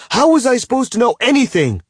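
high, loud furious shout. A narrator's reading. Bound man to his captor, furious shout. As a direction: yell it in her face. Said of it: "I shout".

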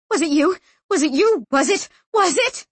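high, frantic repeated demand; screaming. A narrator's reading. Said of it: "She was screaming something over and over".

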